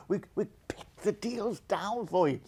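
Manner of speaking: confiding whisper to the viewers; whispered aside. Real, not acted. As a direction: drop to a soft whisper mid-sentence. Aside to viewers in sales pitch.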